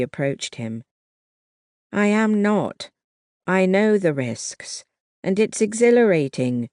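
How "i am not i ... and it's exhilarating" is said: high, eager protest; excited. A narrator's reading. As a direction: insist with thrill in your voice.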